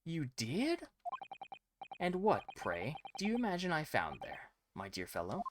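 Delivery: put-on a light, half-hearted Spanish accent for Sholmes; trying for a Spanish-accented detective; attempted Spanish accent. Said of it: "I think Sholmes has a Spanish accent".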